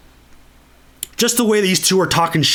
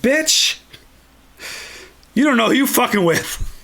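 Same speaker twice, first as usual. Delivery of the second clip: higher, pitch jumps up on Bitch; mock outraged retort; 7 semitones higher than usual. Luke snaps back at the taunting Emperor, mock outraged. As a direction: snap back like a provoked kid. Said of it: "It's like".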